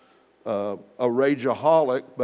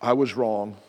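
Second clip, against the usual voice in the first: grudging apology; 2 semitones lower than usual. Retold or imitated. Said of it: "Say it with a good attitude".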